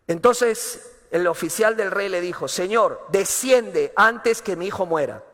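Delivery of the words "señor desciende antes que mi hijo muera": commanding order. Retold or imitated. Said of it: "Suena como una orden".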